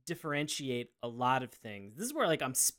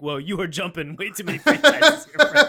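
incredulous laughing; 5 semitones higher, 13 dB louder than usual. Retold or imitated. Incredulous reaction, loud with laugh.

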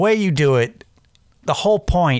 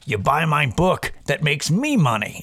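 mock motivational speaker; 3 semitones higher than usual. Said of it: "where it's like".

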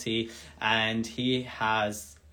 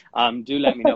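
much higher, louder, bright invitation; eager invitation; 12 semitones higher, 5 dB louder than usual. Real, not acted. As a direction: invite warmly, lifting the voice.

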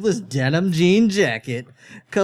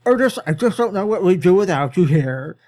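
sarcastic; 3 semitones higher, 4 dB louder than usual. Acted. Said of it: "the sarcasm in his voice".

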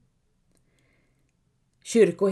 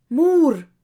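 higher, louder call into the dark; 6 semitones higher, 7 dB louder than usual. Acted. Helga calls for her mother in the night, calling out. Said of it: "försöker Helga".

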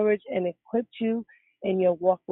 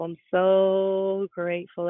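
slowly, dwelling on each word; slow and heartfelt; slower than usual. Shown as a demonstration. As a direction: stretch it out, meaning every word.

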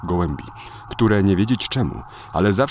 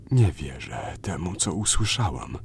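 whispering; 3 semitones lower, 5 dB quieter, slower than usual. Acted. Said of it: "Luiza szepcze".

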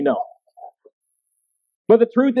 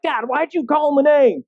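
higher-pitched big sister sticking up for her brother; imitating daughter yelling; 7 semitones higher than usual. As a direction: lightly voice the daughter scolding dad. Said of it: "She's yelling at him".

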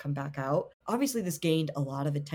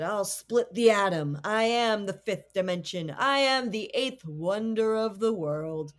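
high-pitched mongoose; 2 semitones higher than usual. Retold or imitated. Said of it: "this high-pitched voice coming from the walls".

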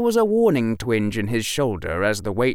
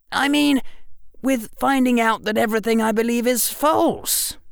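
put-on higher boyish voice, a bit insistent; young Harry voice; 11 semitones higher than usual. A narrator's reading. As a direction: clever boy explaining. Harry's voice in the narration.

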